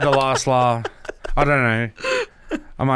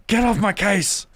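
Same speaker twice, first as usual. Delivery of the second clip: higher-pitched cartoon husband brushing off his wife; Simpsons impersonation; 6 semitones higher than usual. Guest as husband heading to Moe's, Simpsons impersonation. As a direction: grumble back in a raised cartoon voice. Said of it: "We want the Simpsons impersonation".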